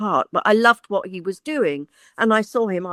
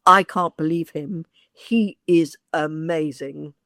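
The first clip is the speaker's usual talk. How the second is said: retold awe, slowing right down at the end; amazed; 3 semitones lower, slower than usual. Casting director phones the agent after audition, amazed. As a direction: weigh out the praise in slow amazement.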